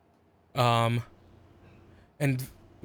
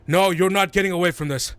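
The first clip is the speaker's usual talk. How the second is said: a touch of scornful menace, louder; scornful threat; 4 semitones higher, 6 dB louder than usual. Acted. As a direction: warn them off with scorn. Noble confronting party with scorn.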